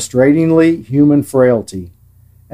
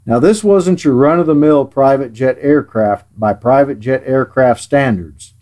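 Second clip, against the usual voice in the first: sarcastic. Real, not acted. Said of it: "and I am being sarcastic".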